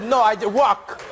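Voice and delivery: imitating a Frenchman's English; French accent. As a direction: mimic the French pronunciation of work. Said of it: "your accent, 'cause you said".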